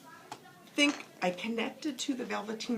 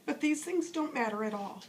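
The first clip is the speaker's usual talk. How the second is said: put-on higher, patient storyteller's old horse; lightly voiced wise old horse; 4 semitones higher than usual. Skin Horse reassuring the rabbit, lightly voiced and tender.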